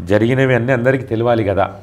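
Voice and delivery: slow despairing message. Retold or imitated. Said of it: "అని పెట్టింది ఆమె".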